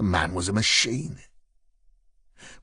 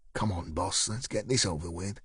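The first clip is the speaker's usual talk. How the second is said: meek; 3 semitones lower, 9 dB quieter than usual. A narrator's reading. After smiling meekly.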